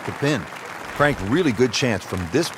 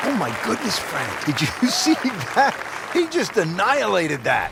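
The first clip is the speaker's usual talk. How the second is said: amazed; 7 semitones higher than usual. Real, not acted. Reacting to huge drive.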